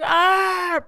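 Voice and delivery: mock pained yell. Friend retelling a hit on the nose, mock pained yell.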